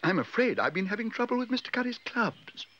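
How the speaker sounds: high-pitched little bear; Paddington, apologetic. A narrator's reading.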